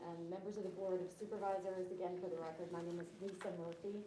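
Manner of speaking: muffled behind a face mask; through a face mask. Real, not acted. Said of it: "can you hear me through the mask".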